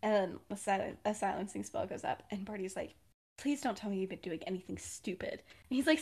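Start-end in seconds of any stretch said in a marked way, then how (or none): 3.4-5.3 hushed pleading. Retold or imitated. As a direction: say it under your breath to a roommate. Private talk after silencing spell.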